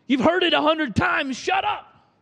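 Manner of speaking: sudden high annoyed snap. Retold or imitated. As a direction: snap at the little brother. Brothers silencing Joseph.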